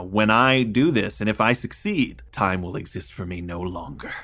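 dramatic declaration, opening slowly and dropping at the end. Retold or imitated. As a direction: declaim it as a mad scientist's vow, lightly. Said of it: "there's a great dramatic".

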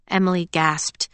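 usual speaking voice

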